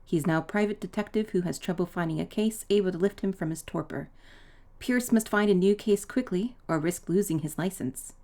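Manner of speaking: lightly read-aloud game intro, a touch of a narrator; reading intro text. Acted. Reading the game's opening text to viewers, as a light narrator. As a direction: read the opening crawl like a storyteller.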